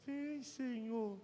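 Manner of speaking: soft, drawn-out feeble plea; hushed, slow, half-hearted call to God; weak mock prayer. Shown as a demonstration. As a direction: imitate someone praying with no force. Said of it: "Então ele fala assim".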